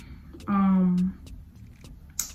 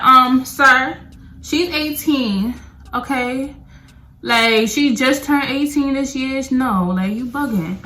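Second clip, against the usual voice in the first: scolding friends; 3 semitones higher, 4 dB louder, slower than usual. Retold or imitated.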